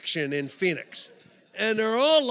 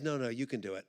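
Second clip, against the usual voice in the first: gentle coaxing; 7 semitones lower, 8 dB quieter, faster than usual. Retold or imitated. Retold friend coaxing climber.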